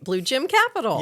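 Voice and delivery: "Gem" said like "gym" in an Appalachian accent; Appalachian "Blue Gem", the vowel of "Gem" like "gym". Real, not acted. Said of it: "in my Appalachian accent, I'm saying Blue Gym".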